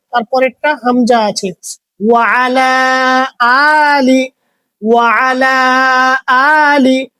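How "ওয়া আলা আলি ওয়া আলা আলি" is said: ওয়া আলা with an ʿayn, then আলি with a glottal hamza; ʿayn in আলা, a clean glottal stop in আলি; correct Arabic pronunciation. Shown as a demonstration. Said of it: "প্রথম কাটটা আইন আছে".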